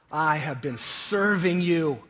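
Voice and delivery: slow, emphatic complaint; disrespectful son. Acted. Older son complaining to his father, slow and disrespectful. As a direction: drag out the grievance as the son. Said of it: "What disrespect".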